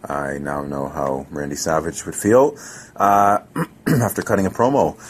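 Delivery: hoarse, losing voice; scratchy, strained voice; voice giving out. Real, not acted. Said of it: "I'm losing my voice".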